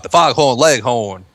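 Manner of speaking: Southern cartoon drawl on "foghorn, leghorn", r's dropped; lightly hammed-up Southern "foghorn, leghorn"; stereotypical Southern accent. Shown as a demonstration. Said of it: "where it's, like, the stereotypical".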